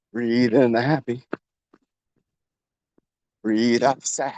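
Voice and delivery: measured breathing cues with long pauses; guided breathing. Shown as a demonstration. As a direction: lead a breathing exercise, drawing out each phrase. Leads paced breathing exercise.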